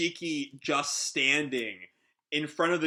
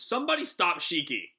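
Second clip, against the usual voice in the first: higher-pitched urgent plea; exclaiming; 4 semitones higher than usual. Acted. Hermit to the crew as Shiki goes, urgent exclaiming. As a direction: exclaim it as an appeal to everyone. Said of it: "Hermit just exclaims".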